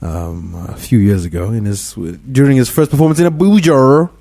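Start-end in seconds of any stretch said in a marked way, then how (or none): 3.3-4.1 "Abuja" stretched out with a rising end; imitating a singer's Abuja. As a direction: draw out "Abuja" affectedly, mocking.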